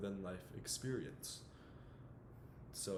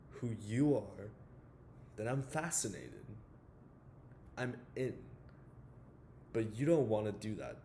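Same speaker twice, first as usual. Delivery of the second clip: lightly acted confrontational monologue with weighty pauses; a touch of stern mentor laying a young man bare; Sean Maguire. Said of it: "the character Sean Maguire".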